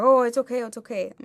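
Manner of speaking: imitating a drunk man's soothing reassurance; drunk guy placating. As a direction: brush her off like a drunk who thinks it's fine. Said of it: "He's like".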